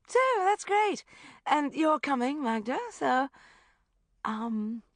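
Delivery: high, loud bossy brightness; bossy gush. A narrator's reading. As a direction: steamroll them cheerfully. Rebecca pushing on.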